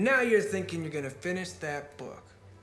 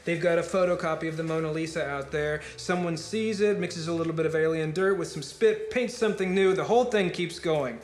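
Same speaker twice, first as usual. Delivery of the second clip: higher, driving, swelling argument; impassioned rant; 4 semitones higher, 4 dB louder than usual. Acted. Speaker argues that even Beethoven's symphony is doomed, impassioned. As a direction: build insistently toward the inevitable end.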